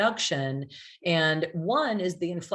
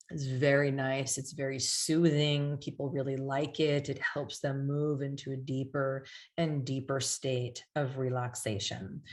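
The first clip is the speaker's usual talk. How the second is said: soothing induction tone; 3 dB quieter than usual. Shown as a demonstration. Demonstrating soothing induction tone after slowing.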